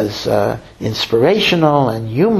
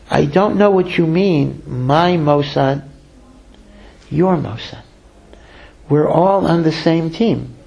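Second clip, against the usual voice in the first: gentle reassurance; slower than usual. Retold or imitated. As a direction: reassure him slowly that there is no rivalry. Rabbi gently corrects grateful fundraiser.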